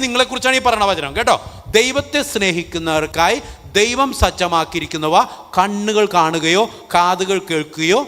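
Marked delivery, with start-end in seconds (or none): 1.8-8.0 each word of the verse laid out slowly; slow scripture reading. Shown as a demonstration. Priest reading the verse to his congregation, slow and deliberate. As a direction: read it out deliberately so every word lands. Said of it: "reads the verse slowly".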